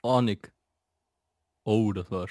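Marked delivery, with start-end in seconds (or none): 0.0-0.5 backwards speech. Shown as a demonstration. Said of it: "sag mal Kino rückwärts".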